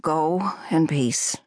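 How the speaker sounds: slow whisper; whispered prayer to the wreckage; whispered farewell. Acted. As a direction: breathe it out slowly to the sea. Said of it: "said Thomas to the wreckage".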